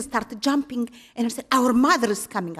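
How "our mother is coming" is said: an eager call that lifts high and loud; excited announcement. Retold or imitated. Nuns jumping with joy, announcing their mother excitedly. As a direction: nuns spreading the exciting news.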